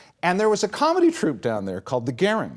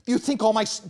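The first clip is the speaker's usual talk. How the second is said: mock indignation. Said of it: "here's what incensed me".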